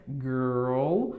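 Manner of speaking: put-on Girl said with a retroflex R, no Portuguese vowel; careful English Girl; English girl demo. Shown as a demonstration. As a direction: curl the tongue for the R in Girl. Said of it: "Fica desse jeito".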